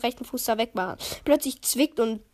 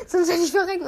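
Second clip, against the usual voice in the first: laughing repeat; 5 semitones higher, faster than usual. Real, not acted.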